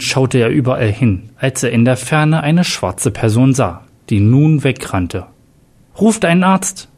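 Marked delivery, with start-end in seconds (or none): 6.0-6.9 higher-pitched, restrained shout; urgent cry. A narrator's reading. Jack calls for a doctor beside the fallen commissioner, urgent cry. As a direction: call out urgently without full volume. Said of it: "schrie Jack".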